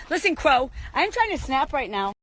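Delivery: loud mock scolding at a rude crow. Vlogger scolding a rude crow: loud mock telling-off. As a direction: tell off a noisy crow, loud and high. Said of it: "And I said".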